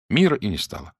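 plain reading voice

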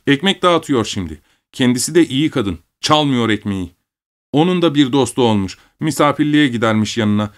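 put-on high-pitched, reproachful child; small son schooling his own father; young boy, lecturing. A narrator's reading. (babasına ders veren küçük oğlan)

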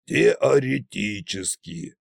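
slow, sceptical ТЕОРЕТИЧЕСКИ; scornful snort. A narrator's reading. Tsar mocking the expert's caveat, scornful. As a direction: echo теоретически slowly and dismissively. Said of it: "снова фыркнул Кощей".

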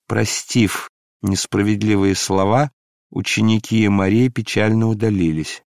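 plain reading voice

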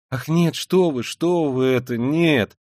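high, loud startled denial; frightened, urgent exclamation; alarmed. A narrator's reading. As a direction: protest in fright, pitch leaping up. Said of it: "С каким-то даже испугом".

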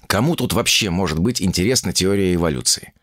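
usual speaking voice

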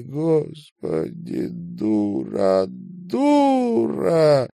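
slow, rising into a high sobbing cry; sobbing self-reproach. Acted. Marina weeping alone into the pillow, slow and breaking high. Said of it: "Марина заплакала".

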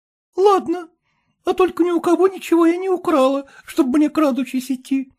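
put-on a saucy factory girl brushing off the suggestion; Dunka's voice.

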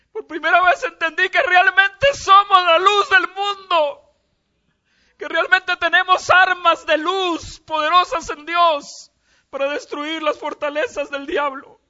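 loud, high, slow preaching through tears; preacher crying out that believers are the light; tearful full-force preaching. Real, not acted.

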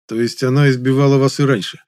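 hard voice. A narrator's reading. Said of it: "Мой голос стал жёстким".

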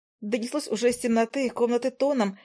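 plain reading voice

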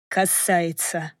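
slow, understated hoarse reply; a touch of hoarseness, drawn out slowly. A narrator's reading. Man answers the woman he has cornered, slightly hoarse. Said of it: "сказал он хриплым голосом".

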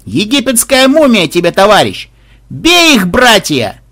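high, loud indignant shout; rally the brothers to attack; scornful yell into a charge; battle cry. Acted. Priest rallies attack on the undead.

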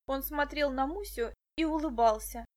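ordinary delivery

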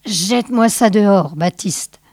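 understated, firm order; commanding. Acted. Sage orders his henchman to eject the pimp, commanding. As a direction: give a curt command to a henchman. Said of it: "commanda le sage".

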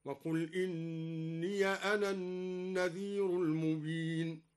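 slow recitation, إني ending in a short "ya"; fatha on ya. Shown as a demonstration. Teacher shows the open ya, إني said "inniya". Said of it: "وفتح الياء من قوله تعالى".

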